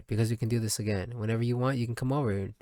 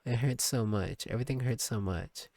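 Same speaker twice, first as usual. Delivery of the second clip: quiet hurt; 5 dB quieter than usual. Acted. Character in pain, read softly.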